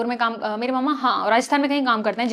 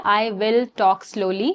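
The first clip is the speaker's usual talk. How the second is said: slow, drawn-out promise; deliberately slowed down; talking slowly; much slower than usual. Shown as a demonstration. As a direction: stretch the words out to show slow speech. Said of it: "मुझे धीरे बोलना है और मैं धीरे बोलूंगी".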